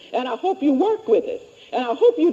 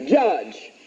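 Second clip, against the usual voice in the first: low, falling "judge"; dictating; 11 semitones lower than usual. Shown as a demonstration. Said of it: "Number five".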